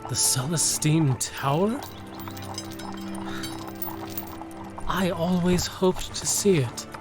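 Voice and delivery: high, soft, awed voice; wide-eyed wonder. Acted. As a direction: marvel at a long-dreamed-of place. Eager youngster hears of tower.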